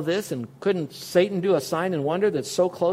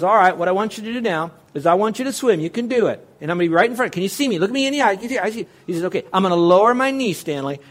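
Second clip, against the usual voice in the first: encouraging dad; 3 semitones higher, 4 dB louder than usual. Retold or imitated. Father coaxing boy to swim.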